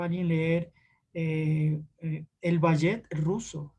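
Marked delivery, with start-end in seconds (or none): 2.4-3.7 "ballet" misread with a Spanish ll, like "ba-yet". Retold or imitated. Teacher quoting a student who misread the Russian ballet, mispronounced. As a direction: imitate a reader saying "ballet" as "ba-yet". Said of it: "no se dice ballet".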